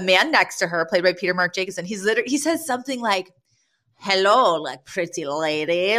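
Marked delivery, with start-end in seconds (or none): 4.0-6.0 put-on slow, over-the-top Russian accent. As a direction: imitate a sleazy Russian pick-up line, hammed up. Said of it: "he's doing a Russian accent".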